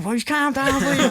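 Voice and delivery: laughing, high Scouse calm down; Scouse impression. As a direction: send up a Scouser telling the lads to calm down. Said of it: "Harry Enfield lads, you know, the Scousers".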